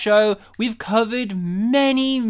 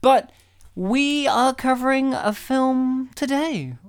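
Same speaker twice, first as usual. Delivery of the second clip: slow, raised showman's tease; teasing build-up; 4 semitones higher than usual. Real, not acted. Host cues co-host to reveal today's film, teasing build-up. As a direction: draw out the suspense of the reveal.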